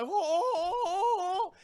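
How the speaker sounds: high, crying ohs; panicked whimpers. Retold or imitated. Hero panicking as the monster looms over him. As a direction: whimper in terror. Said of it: "He's like".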